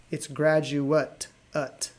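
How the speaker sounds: graduate slowed, ending pulled out as a short ut; stressing the ending. Shown as a demonstration. Teacher isolating the noun ending for students. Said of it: "confusing in the pronunciation".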